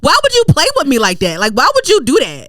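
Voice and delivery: high, wailing complaint; mad. Retold or imitated. Tenant asking why bank played her, mad wail. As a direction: cry out indignantly, then fall in pitch. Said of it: "I was mad at them".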